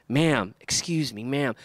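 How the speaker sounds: low, gently respectful address; understated courteous tone; super respectful. Acted. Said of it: "It's super respectful".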